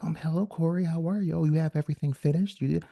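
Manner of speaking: lightly voiced mom, prim and polite; mom's professional phone voice. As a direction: do mom's proper office voice. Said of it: "She's like".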